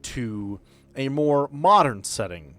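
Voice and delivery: measured scene-setting over music; game master narration. Acted. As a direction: paint the temple for the player. GM sets the scene.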